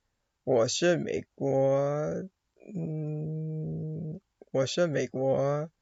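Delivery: "我是美国" repeated slowly over and over; slow repetition. Shown as a demonstration. A learner repeating 我是美国 after the audio, slowly. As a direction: drill 我是美国 slowly again and again. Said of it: "like, over and over again".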